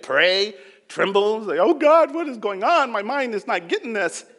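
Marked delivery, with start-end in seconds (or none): 1.6-4.2 loud and pitched high, crying out in frustration; desperate prayer. Retold or imitated. Preacher reenacting his own desperate prayer, loud and high. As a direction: plead with God at full voice.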